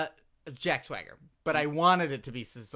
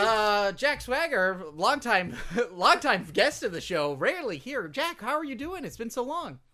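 talk show host; 6 semitones higher, 7 dB louder than usual. Acted. Hosting, introducing guest.

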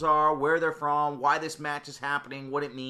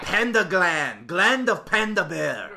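shady salesman voice; 4 semitones higher, 7 dB louder, slower than usual. Pretend. Mock drug dealer bit.

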